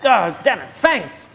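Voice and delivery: lightly voiced fussy handler over the earpiece; a hint of a flustered mentor in his ear; Bumbersnatch on comms. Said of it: "You hear Bumbersnatch's voice in your ear".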